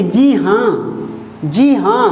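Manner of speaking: हाँ hit firmly each time; stress on हाँ. Shown as a demonstration. Teacher repeats "जी हाँ" to show which word carries the weight. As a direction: lean hard on हाँ in "जी हाँ". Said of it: "हाँ" शब्द पे जोर पड़ रहा है".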